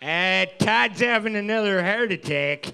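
put-on Chicago Superfan accent, lightly done; a hint of a Chicago sports fan accent. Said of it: "your Chicago accent".

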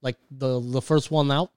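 wandering fake Russian accent; put-on foreign accent. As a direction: feel your way through an unsure foreign accent. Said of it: "where is he going with the accent?".

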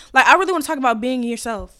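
talking while needing to burp; holding in a burp. Real, not acted. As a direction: hold back a burp. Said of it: "'Cause I have to burp".

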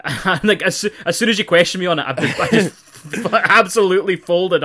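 giggling while admitting defeat; laughing. Real, not acted. Laughing at own bluff.

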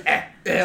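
mimicking a friend's involuntary grunts; mock effort noises, short and repeated; imitated straining noises. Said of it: "all those noises he makes".

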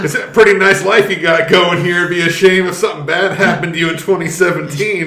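friendly mobster threat; sweetly menacing, like a loan shark; smiling menacing loan shark. Acted. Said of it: "That seems like a threat".

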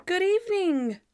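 hammed-up TV host, high and loud; bad on-air acting, stretched final words; awkwardly overplayed lottery presenter; Natalie. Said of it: "Bad Natalie acting is so funny".

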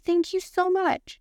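high, drawn-out thank-you; mock gracious thanks. Embarrassed woman thanking her friend's mom, high mock gratitude. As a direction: pitch way up and stretch the thanks. Acted reply to embarrassing tip-off.

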